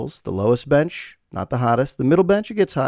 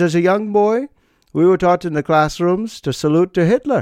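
bad put-on German accent, higher pitch; 5 semitones higher than usual. Quoting an old German man recalling his boyhood, in a bad German accent. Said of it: "this is not a great German accent".

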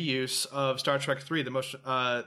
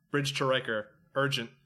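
flat, dead-level deadpan delivery. Retelling a line from the show, imitating Worf deadpan. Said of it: "Worf just, like, deadpans it".

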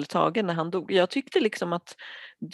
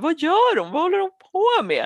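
put-on very high, loud, swooping shocked scream; 11 semitones higher, 5 dB louder than usual. Speaker retells watching a show scene, reenacting screaming out in shock. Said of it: "jag skrek rakt ut".

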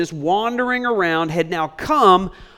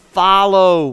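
follow stressed, louder and slow. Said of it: "Underline the word follow".

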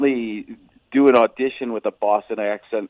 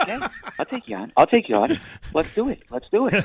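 high voice, pitch rising at the end of each line. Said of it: "he's got that up here, up here".

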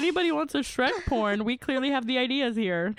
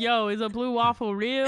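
ordinary talk, nothing marked

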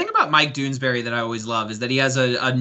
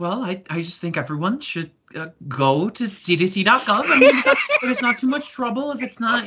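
meek woman voice, pitched much higher; 8 semitones higher than usual. Asked by another speaker to hear it, a speaker performs: Sally Forth voice. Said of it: "Can I hear your Sally Forth".

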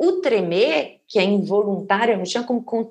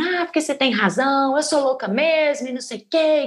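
acted yelling, much higher and slower; 5 semitones higher than usual. Recalling an argument where she suddenly started yelling back, retelling her own yelling. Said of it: "comecei a berrar assim".

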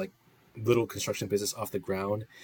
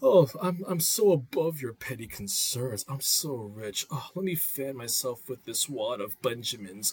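bored, disaffected, above-it-all rich woman voice; 3 semitones higher, 3 dB quieter than usual. Describing how a certain type of person talks, the speaker mimics them: imitating a disaffected rich woman. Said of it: "the type of person is like who talks like this".

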